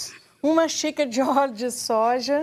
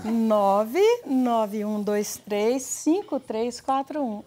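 Move phone-line woman voice; 3 semitones lower, much slower than usual. Retold or imitated. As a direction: read digits like an automated operator. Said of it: "Com a voz da garota do Move". (voz da garota do Move, lenta e suave)

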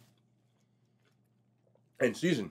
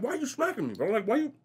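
high, exasperated complaint; pitched-up protest at being smacked; 13 semitones higher than usual. Retold or imitated. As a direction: raise your voice high in disbelief. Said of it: "And you're like".

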